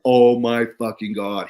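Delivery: loud, excited gasp of disbelief; a doctor's thrilled outburst at the idea; amazed exclaim. Retold or imitated. Doctor reacting to the gut biome pitch, loudly amazed. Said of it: "He freaked out".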